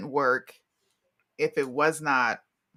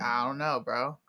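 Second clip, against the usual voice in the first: timid mock reply; 6 semitones lower, 6 dB quieter than usual. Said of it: "And you're like".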